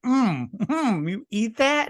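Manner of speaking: mock disgusted surprise. Acting the character tasting food.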